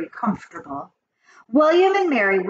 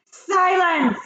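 very high, loud command; sharp witch's order, high and loud; commanding shout; 10 semitones higher, 4 dB louder than usual. A narrator's reading. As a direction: shout down a clamouring crowd. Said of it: "shouted the Grand High Witch".

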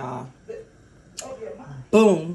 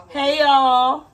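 excited hi; 6 semitones higher, 7 dB louder than usual. Real, not acted. Excited greeting to viewers.

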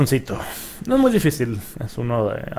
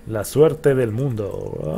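slow savoring repeat; much slower than usual. Real, not acted. Repeats his luck slowly.

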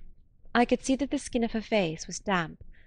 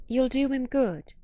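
1 raised encouragement; 5 semitones higher than usual. A narrator's reading. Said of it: "raising my voice to the pitch".

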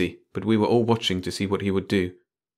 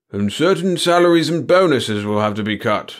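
mumbling boss voice; 5 semitones higher, 6 dB louder than usual. A narrator's reading.

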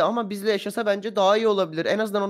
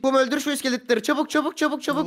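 urgent urging; 5 semitones higher than usual. Acted. Urging cub to kill skeletons.

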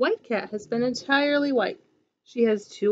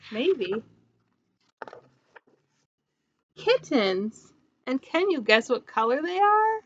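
bright, lively storybook voice; reading to children. A narrator's reading. Teacher reading a picture book to her class, bright and lively. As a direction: read it like storytime for little ones.

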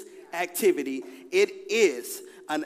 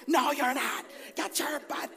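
high retold holler; acted-out urgent yell; alarmed insisting; 9 semitones higher than usual. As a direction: order someone out of the water, high-pitched. Arguing back at wife in story.

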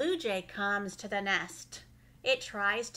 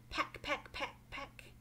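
cartoon bird voice; 3 semitones higher, 10 dB quieter than usual. Chicks break out of eggs.

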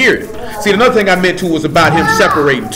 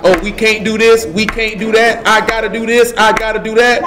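higher-pitched imitation of a complainer; mock complaining; 4 semitones higher than usual. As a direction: recite excuses in a mock protest. Mimicking someone who keeps complaining.

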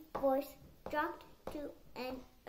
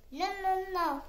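squeaky; 4 semitones higher, 7 dB louder than usual. Acted. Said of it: "squeaked Dobby".

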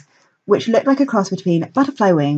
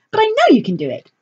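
theatrical director voice. A narrator's reading. Lilith character voice.

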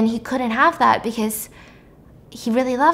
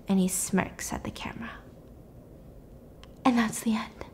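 sinking to a whisper for the twist ending; dramatic hush; 2 semitones lower, 6 dB quieter than usual. Acted.

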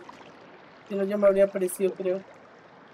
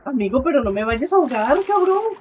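exasperated protest; 2 semitones higher, 5 dB louder than usual. Real, not acted. Begging his in-game friend not to drown him, exasperated and loud. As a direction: protest as if going under for real.

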